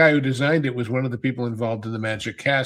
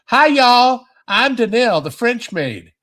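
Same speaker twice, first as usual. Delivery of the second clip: a Southern belle playing a French maid; mock Southern twang, higher and louder; Southern accent; 9 semitones higher, 6 dB louder than usual. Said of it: "she had this thick Southern accent".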